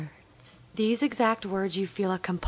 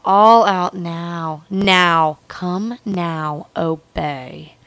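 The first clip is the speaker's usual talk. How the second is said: louder, insistent bursts over breathy murmurs; building urgent command; 6 dB louder than usual. Pretend. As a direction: drive the commands to a peak, then ease off. Roleplay builds to its climax.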